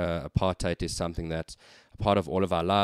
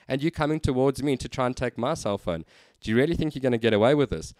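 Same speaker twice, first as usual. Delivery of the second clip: firm confrontation; 3 semitones higher, 3 dB louder than usual. Retold or imitated. Confronting the racist customer.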